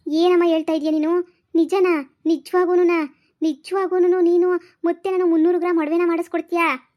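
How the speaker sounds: can't believe her luck; surprised delight. Acted. Daughter hears mother's gold offer.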